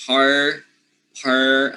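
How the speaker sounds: Par said with a clear r; r syllable. Shown as a demonstration. Teacher drilling the par syllable for practice. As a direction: Par repeated with the r kept. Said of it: "just practice".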